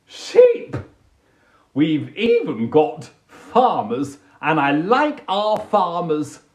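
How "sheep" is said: high, loud squeal; squeaky excited. Acted. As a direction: squeal the word sheep. Listing countryside things.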